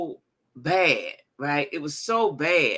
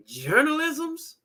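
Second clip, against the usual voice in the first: drawn-out disbelief; 8 semitones higher, much slower than usual. Real, not acted. Mocking mayor's word.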